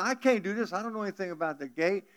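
a flustered Cajun fellow, fast; nervous Boudreaux. Acted. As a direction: Boudreaux left alone at heaven's gate, fretting. Boudreaux panics left at gate.

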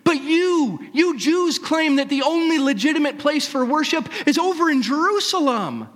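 high, loud, excited protest; decrying. Acted. Samaritan woman protesting to the prophet, high excited outcry. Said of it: "she decries".

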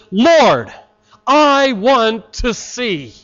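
slow, simple heartfelt plea; earnest plea. Acted. Blind beggar pleading with Jesus, slow earnest plea. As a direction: say it slowly like a blind man begging.

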